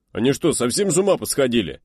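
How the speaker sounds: high, loud disbelieving yell; outraged shout. Acted. Deputy commander yelling in outrage at the attack. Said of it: "заорал помкомандира".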